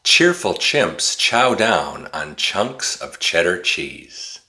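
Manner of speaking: rattled off fast in one breath; really fast. Shown as a demonstration. Teacher saying the tongue twister really fast. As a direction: race through the twister. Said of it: "say it really fast".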